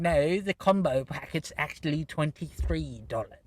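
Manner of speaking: lightly mocking British old woman; hammed-up British ticket lady; British accent. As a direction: put on a bit of a British accent for the ticket checker. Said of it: "why I made her British".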